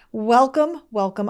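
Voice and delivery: first high and loud, second easy; double welcome. Real, not acted. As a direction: greet twice, lift then settle. Repeated greeting.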